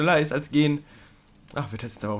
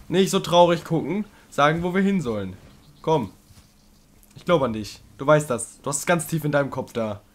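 coaxing encouragement; 3 semitones higher, 5 dB louder than usual. Real, not acted. Coaxing the creature Trico.

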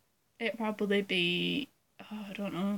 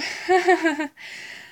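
short, higher, louder burst of laughter; giggle; 6 semitones higher, 5 dB louder than usual. Real, not acted. Vlogger amused by own impression, real giggle. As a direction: giggle at your own boast.

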